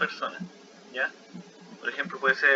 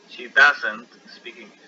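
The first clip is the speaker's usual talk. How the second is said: She doesn't speak English said slowly and louder; slow, firm repeat of the sentence; model sentence; 7 dB louder, slower than usual. Shown as a demonstration. Teacher repeats the example to students, slowly and louder. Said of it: "la S es la tercera persona singular".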